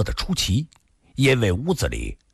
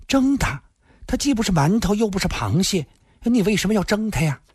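put-on high-pitched baffled young woman; puzzled; 10 semitones higher than usual. A narrator's reading. Granddaughter asking why steam him, puzzled. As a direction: question it in a high, incredulous voice. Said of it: "孙小红更奇怪了".

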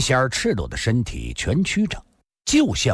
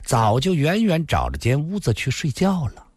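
flirtatious. Acted. Lin Xian'er flirts with Yiku, coy. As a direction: coax him playfully. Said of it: "林仙儿眼波流动".

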